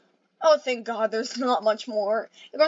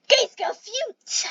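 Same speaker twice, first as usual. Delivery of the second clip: slow high call; 12 semitones higher than usual. Acted.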